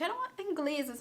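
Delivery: ordinary talk, nothing marked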